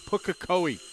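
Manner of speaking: "Pukekohe" said carefully after a slight hesitation; pause, then let "Pukekohe" flow out whole; careful pronunciation. Shown as a demonstration. Announcer showing a hard-learned New Zealand place name, carefully pronounced. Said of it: "I still hesitate a moment when I say it".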